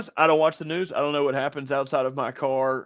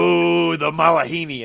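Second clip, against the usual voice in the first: louder, drawn-out teasing "ooh"; mock dismissive; 5 dB louder than usual. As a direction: imitate locals sneering at a newcomer. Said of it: "say it with that kind of dismissive tone".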